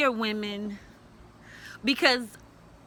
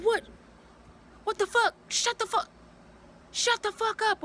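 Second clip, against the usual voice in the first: mimicking his angry snap; 10 semitones higher than usual. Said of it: "He said".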